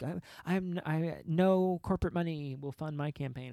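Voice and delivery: high, earnest mock campaign voice; mock AOC. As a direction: parody a campaign pledge. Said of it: "She ran her whole campaign, like".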